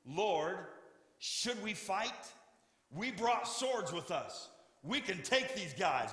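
rally your leader to fight; excited. Acted. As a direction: disciples eager to take up their swords. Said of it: "they exclaimed".

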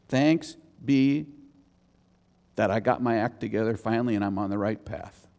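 deadpan mock misquote, tailing off low and quick. Shown as a demonstration. Preacher misquotes Paul to his church, deadpan mock reading. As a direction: read the false version as if it were the verse. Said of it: "That's not what he says, right?".

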